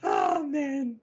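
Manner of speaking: high, drawn-out words through laughter; helpless laughter in the voice; laughing. Real, not acted. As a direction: still laughing, squeal it out slowly. Reacting amid a laughing fit.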